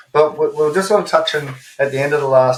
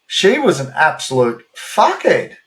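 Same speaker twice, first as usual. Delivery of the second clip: laughing, a bit slower; laughing while quoting; 3 semitones higher, slower than usual. Retold or imitated. Retelling the wife's blunt verdict on the woman, laughing. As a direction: quote the wife through laughter. Wife swears, both laughing.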